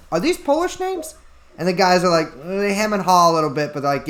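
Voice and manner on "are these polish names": pitched well up, incredulous; suspicious question. Acted. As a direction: ask it high and doubtful. Saint Peter suspicious of names.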